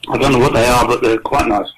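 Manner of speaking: talking while chewing; mouth full. Real, not acted. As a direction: speak through a mouthful. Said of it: "so I'm eating some".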